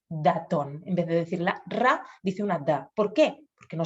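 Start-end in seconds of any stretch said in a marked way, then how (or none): 0.1-0.8 datón with a d in place of the r of ratón; child's mispronunciation. Retold or imitated. Child saying ratón as datón. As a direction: say datón, d instead of r. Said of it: "decir datón".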